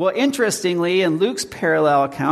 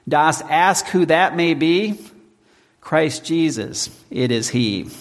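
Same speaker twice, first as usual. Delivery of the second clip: put-on slow, measured reading of old verse; solemn recited hymn verse; slow hymn recitation. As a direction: lift each line of the hymn deliberately. Reciting Luther hymn lyrics.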